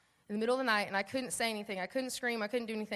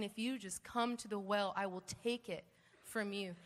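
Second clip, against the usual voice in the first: soft, lower, reassuring invitation; gentle calling; 3 semitones lower, 9 dB quieter than usual. Retold or imitated. God calling her to the well, softly reassuring. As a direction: quietly offer to lift the burden.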